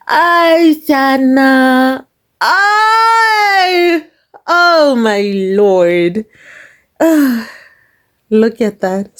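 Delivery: high, drawn-out food ecstasy; swooning over food. Real, not acted. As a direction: moan with delight over the dish.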